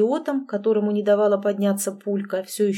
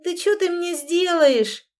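much higher, slow scornful challenge; scoffing; 8 semitones higher, 3 dB louder than usual. A narrator's reading. Ex-husband dismissing narrator's threat, scoffing.

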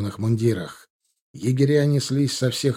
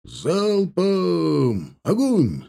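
high, ringing fire order; commander's shout; 6 semitones higher, much slower than usual. A narrator's reading. Battalion commander ordering a volley, shouting. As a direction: call out the volley. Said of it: "донёсся крик командира батальона".

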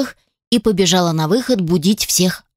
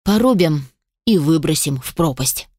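unperturbed; 3 semitones lower than usual. Acted. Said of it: "невозмутимо произнёс".

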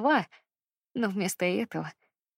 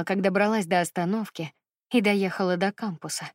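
ordinary delivery, nothing marked

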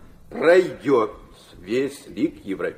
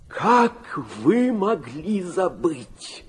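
gentle reproach; 6 semitones higher, much slower than usual. Acted. Father voicing Christ in his vision.

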